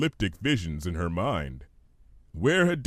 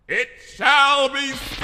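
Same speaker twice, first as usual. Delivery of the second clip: slow, louder godlike proclamation; booming sky voice; 6 dB louder, slower than usual. Acted. A voice from the sky grants the wish, booming. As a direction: declare it from the heavens. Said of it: "a booming voice echoed in the sky".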